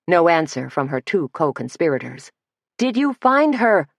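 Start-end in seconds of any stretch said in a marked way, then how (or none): 2.8-3.9 calling out. Acted. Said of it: "she called again".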